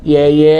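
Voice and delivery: husband naming the catfish, tongue-tied; lisping. Retold or imitated. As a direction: mangle "lele" into "ye, ye". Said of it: "Ngomongnya cadel".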